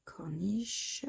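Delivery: softly whispered word. Real, not acted. Finding a word, whispered to herself.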